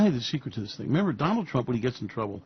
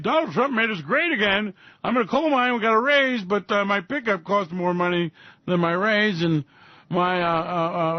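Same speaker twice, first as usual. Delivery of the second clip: higher, whiny put-upon miner; mock coal miner; 4 semitones higher than usual. A coal miner whining to Donald about his raise, mock voice. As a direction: complain like a broke coal miner.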